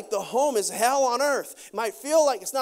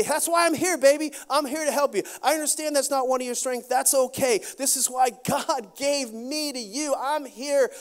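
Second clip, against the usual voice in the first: encouraging wife; 3 semitones higher than usual. Retold or imitated. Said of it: "You might say".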